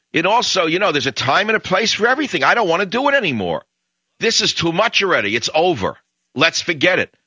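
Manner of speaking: hammed-up impersonation of a smug talker; mock pundit voice.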